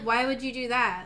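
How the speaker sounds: puzzled question; confused. Shown as a demonstration. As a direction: ask it in honest confusion. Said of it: "I felt it was more like".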